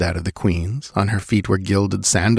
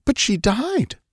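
hushed queen; slower than usual. A narrator's reading. Queen answers witch.

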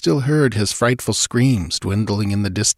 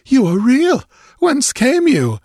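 high, loud astonishment; bewildered exclaiming; 5 dB louder than usual. A narrator's reading. Stranger realizing the intruders are real, exclaiming in bewilderment. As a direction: blurt it out, high and startled. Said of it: "a look of bewilderment".

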